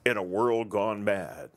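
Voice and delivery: slow, dramatic trailer announcer; lightly voiced movie trailer narration. Shown as a demonstration. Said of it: "should I use my trailer voice?".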